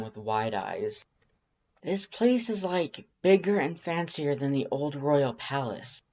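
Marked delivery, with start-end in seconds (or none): 1.8-6.0 confused. Acted. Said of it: "sounding a little confused".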